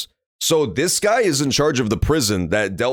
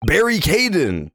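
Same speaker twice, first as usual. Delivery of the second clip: "Barry Caden" drawn out slowly and higher; savouring the name; 9 semitones higher than usual. Shown as a demonstration. Streamer mulling the governor's name, slow and higher. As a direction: linger on "Barry Caden" as if tasting a pun. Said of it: "That makes so much sense".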